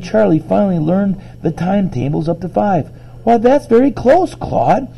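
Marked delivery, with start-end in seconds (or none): 3.2-4.9 high-pitched encouraging praise; surprised, pleased. A narrator's reading. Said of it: "surprised and a little bit pleased".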